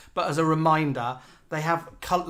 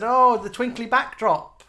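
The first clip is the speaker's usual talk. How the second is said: gushing fans; 6 semitones higher, 4 dB louder than usual. Retold or imitated. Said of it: "They all said".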